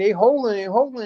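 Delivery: mock shouted yelling and screaming. Retelling watching a game, yelling at the TV: retelling yelling at the TV. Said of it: "I'm yelling and screaming at the T V saying".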